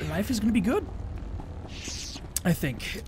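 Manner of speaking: hiccuping between words; with hiccups. Real, not acted. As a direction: speak through hiccups. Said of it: "the hiccups".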